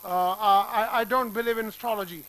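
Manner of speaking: astrology said as stology, slowly; slow sentence, drop the A of astrology; no A sound. Shown as a demonstration. Teacher demonstrating the silent vowel in a sentence. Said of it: "मैंने नहीं बोला, आपने सुना".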